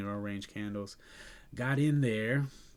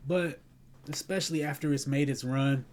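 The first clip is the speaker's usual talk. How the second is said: emphatic; 5 semitones higher, 6 dB louder than usual. Real, not acted. Emphatic warning.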